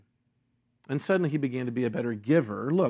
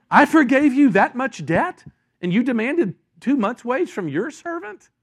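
indignant king; 9 semitones higher, 7 dB louder than usual. Retold or imitated. Angry king confronts servant.

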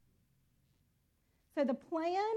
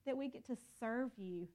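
closing prayer. Acted.

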